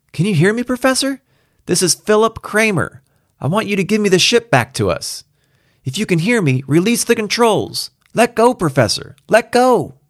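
desperate Kramer calling out. Acted. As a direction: beg him insistently, voice pushed right up. Kramer's pleading call mounts.

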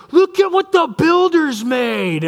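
put-on high, slow childlike wonder; a small boy gazing at freeways in awe; amazed little kid. Dad voicing young son amazed at the freeways.

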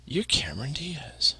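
lightly voiced awestruck drunk, drawn out; drunk friend, retold. Drunk friend pointing out a star, mildly mocked slow drawl.

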